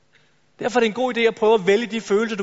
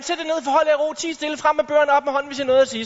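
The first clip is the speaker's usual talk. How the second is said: bossy teacher; 4 semitones higher than usual. Retold or imitated. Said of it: "og så siger læreren".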